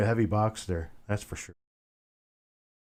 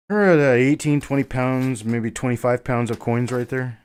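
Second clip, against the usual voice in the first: winded, catching his breath; puffing after heavy lifting; 4 dB louder than usual. Real, not acted. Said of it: "I'm just a bit winded".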